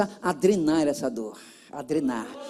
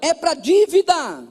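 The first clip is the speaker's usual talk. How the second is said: raised, emphatic phrases with pauses; leading a repeat-after-me; 5 semitones higher, 4 dB louder, slower than usual. Shown as a demonstration. Preacher has the congregation repeat after him, loud and measured. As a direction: proclaim it piece by piece for them to repeat. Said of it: "Diga assim".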